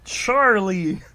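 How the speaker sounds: mock summoning shout; calling out. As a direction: call Charlie across the room. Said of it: "Shogred smirked".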